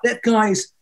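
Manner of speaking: acted disbelief. Onlooker thinking the worship leader is mad, acted disbelief. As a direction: build into baffled, incredulous protest. Acting out his shocked inner reaction.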